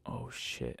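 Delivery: breathy, hushed curse under the breath; a quiet startled curse; hushed oh shit. Retold or imitated. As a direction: mutter it to yourself in shock. Muttered shock at car kicked.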